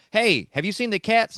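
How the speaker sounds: retold yell. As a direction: call out, a mild mock yell. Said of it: "I hear Kim yell".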